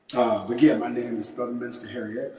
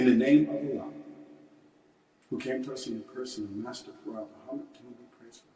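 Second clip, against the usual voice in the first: prayer recitation. Real, not acted. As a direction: recite a memorized prayer, each phrase falling away at the end. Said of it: "we want to recite the Muslim prayer".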